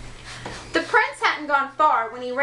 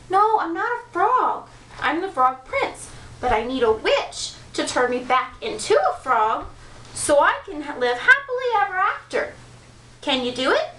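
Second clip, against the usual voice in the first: earnest prince; 3 semitones higher than usual. Acted. Prince correcting witch.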